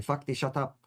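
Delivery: a clumsy, mock-gruff Russian accent; bad Russian accent. Russian physician telling him to shut up, bad Russian accent. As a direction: bark it like a cartoon Russian, badly. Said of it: "That's my worstest, worstest accent ever".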